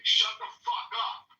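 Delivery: high, loud, drawn-out yell; slow mock shout, pitch leaping up; retold yelling. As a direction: imitate a man jumping up to yell. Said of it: "he started yelling".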